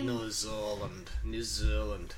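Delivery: mock New Zealand accent, vowels swallowed. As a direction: imitate a New Zealander saying the country's name. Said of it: "don't pronounce their vowels in New Zealand".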